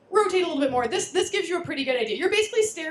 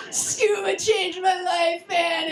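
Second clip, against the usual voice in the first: laughing; 5 semitones higher, 3 dB louder, much slower than usual. Real, not acted. Laughing over the life-changing dive.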